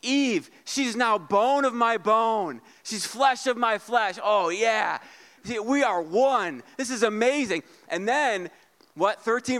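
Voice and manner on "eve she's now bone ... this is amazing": mock Adam rapture. Pastor voicing Adam delighted by Eve, mildly gushing. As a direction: swoon over Eve. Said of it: "He's like".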